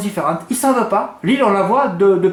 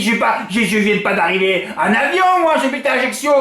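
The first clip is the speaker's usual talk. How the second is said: retold tearful protest; 4 semitones higher than usual. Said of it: "la Jackson qui était en pleurs".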